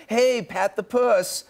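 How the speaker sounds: slow, drawn-out high fan call; excited fan greeting. Retold or imitated. Fans on the street calling Andy a tagline, drawn out high. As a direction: greet him like a starstruck fan. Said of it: "they're like".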